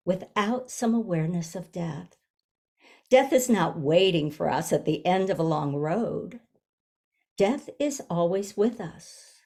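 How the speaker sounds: measured reading with long pauses between phrases; reflective, spaced-out book reading; reading aloud. Real, not acted. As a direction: read the passage deliberately, giving each phrase room. Reads book passage aloud.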